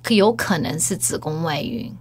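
measured, composed doctor imitation; feigned calm. Doctor cautiously telling the patient, mock composure. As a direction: keep it deliberately composed, with pauses. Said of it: "他也是故作镇定说".

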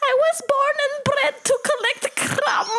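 high, shouting devoted ant; official ant voice. Pretend. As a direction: proclaim like a worker ant. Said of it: "official ant voice".

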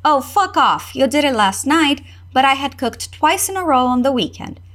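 put-on girl gets a little irritated at her boyfriend; mildly irritated. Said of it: "A garota se irrita um tiquinho de nada".

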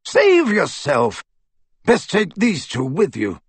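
put-on gruff old wizard, insistent. Aberforth urging Harry to flee, forceful. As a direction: hammer home that it's hopeless.

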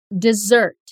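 desert with stress on the second syllable, dizERT. Shown as a demonstration. Teacher models desert, stress on second syllable. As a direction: model desert for learners to repeat. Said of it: "quando a gente pronuncia desert".

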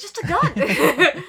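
Kamahate said through a real laugh; giggling Kamahate. Real, not acted. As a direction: laugh out the name Kamahate, rising.

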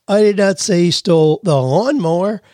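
"lawnmower" set apart with a high peak; stress on LAWNMOWER. Shown as a demonstration. Host shows emphasis changes meaning, stress on "lawnmower". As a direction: save the emphasis for "lawnmower" at the end. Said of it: "change the meaning dramatically just by your emphasis".

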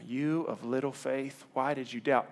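slow, soft, tender rebuke read; gentle reading. Shown as a demonstration. Jesus to sinking Peter, slow gentle words. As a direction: say "You of little faith" slowly and softly. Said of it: "don't read this wrong".

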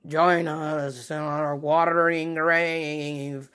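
very slow, drawn-out underwater ghost voice; watery accent. Retold or imitated. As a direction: imitate the drowned calling, stretching each word as if through water. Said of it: "like, a watery accent".

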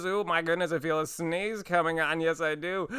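halting, stammering Goldblum voice building to a sneeze; performing the co-written Goldblum sneeze bit, halting and stammering; Jeff Goldblum impression. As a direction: stutter through the wind-up, then the sneeze. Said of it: "where Jeff Goldblum's sneezing, and he goes".

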